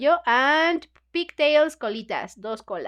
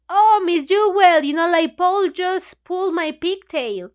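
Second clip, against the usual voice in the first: higher, louder whiny tattle to the teacher; tattling little girl; 5 semitones higher, 4 dB louder than usual. Retold or imitated. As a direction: tell on Paul like a wronged schoolgirl. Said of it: "and is like".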